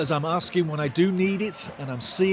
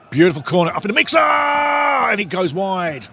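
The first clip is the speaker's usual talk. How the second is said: rising, louder call as the corner flies in; excited play-by-play; 4 semitones higher, 5 dB louder than usual. Real, not acted. Streamer calling the corner live to his chat, excited and loud. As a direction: let it build with the ball, then drag out the miss.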